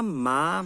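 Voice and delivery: rising Mandarin second tone on "ma". Shown as a demonstration. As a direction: lift the pitch through a long "ma". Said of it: "A gente teria ma".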